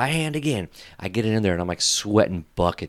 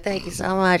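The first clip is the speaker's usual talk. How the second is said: much higher, gushing thank you; high mock gratitude; 9 semitones higher than usual. Mimicking the couch lady thanking him, high and gushing. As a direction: play the grateful lady, pitched way up. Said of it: "She's like".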